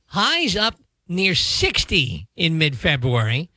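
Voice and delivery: measured radio forecast delivery; weather read. Real, not acted. Forecaster to the hosts about morning clouds, radio weather read. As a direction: read the forecast over music, stretching some phrases.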